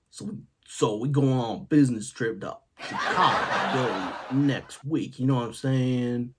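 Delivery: lightly imitated Ebonics; a casual mock Ebonics delivery; Ebonics imitation. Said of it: "who always spoke in Ebonics".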